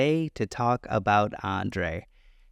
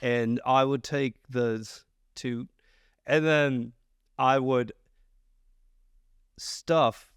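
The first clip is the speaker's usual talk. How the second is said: put-on botched Maine accent. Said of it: "how dare you butcher that accent".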